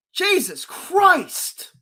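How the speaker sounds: slow, drawn-out Jesus Christ; fed up, dragging the words; exasperated groan. Real, not acted. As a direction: sigh it out in disbelief. Exasperated after rant.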